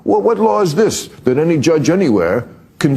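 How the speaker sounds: stupid voice. Acted. Host voicing a baffled voter who ignores politics, stupid voice. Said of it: "I don't know why I'm using that accent".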